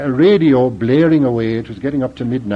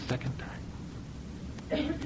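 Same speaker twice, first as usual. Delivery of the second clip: "Second" then a long pause before "time"; repeated with pause; 13 semitones higher, 20 dB quieter than usual. Real, not acted. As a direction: split "Second" and "time" apart for weight.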